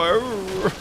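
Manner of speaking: half-hearted, limp "arr" like a badly bred bulldog; bored bulldog bark. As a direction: bark with no passion at all. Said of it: "like a bulldog that's been bred wrong".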